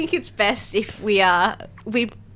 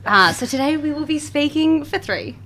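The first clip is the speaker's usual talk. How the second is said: raspy whisper; 6 semitones higher than usual. Real, not acted. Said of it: "I've lost my voice".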